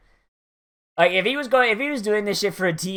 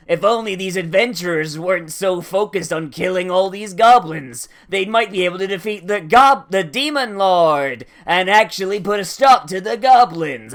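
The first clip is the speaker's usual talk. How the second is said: gloating villain; 3 semitones higher, 5 dB louder than usual. Retold or imitated. Villain taunting the adventurers.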